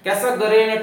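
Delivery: कैसागरेन said slowly and carefully, Oxford style; कैसागरेन, pronounced like a careful Oxford English speaker; Oxford pronunciation. Shown as a demonstration. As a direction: say कैसागरेन the proper Oxford way, drawn out. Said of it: "Oxford की है तो आप कैसागरेन".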